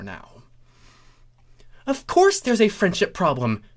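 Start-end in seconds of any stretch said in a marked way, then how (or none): 1.9-3.6 high, loud indignant exclaim. Acted. Trixie exclaiming to Starlight, high and loud. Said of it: "Trixie exclaimed".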